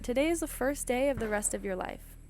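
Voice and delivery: energetic motivational slogan; upbeat motivational line. Shown as a demonstration. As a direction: proclaim it like a pep talk. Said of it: "How exciting is that?".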